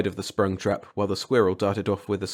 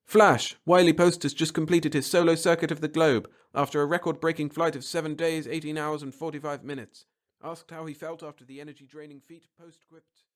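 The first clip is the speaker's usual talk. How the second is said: radio voice fading out; 7 semitones higher than usual. Acted. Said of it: "the grating radio voice".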